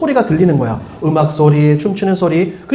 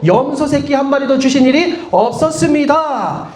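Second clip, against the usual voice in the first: put-on older son's complaint; 3 semitones higher than usual. Older son protests to his father, aggrieved. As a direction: read aloud as a mild, higher-pitched grievance. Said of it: "형의 투정이 느껴져요".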